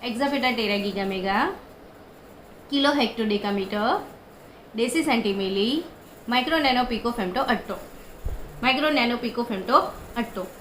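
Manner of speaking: quick sing-song run through the prefixes; rapid memory chant; fast recital. Shown as a demonstration. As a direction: rattle it off at speed. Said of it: "तो मैं जैसे speed में हमेशा बोलती रहती हूँ".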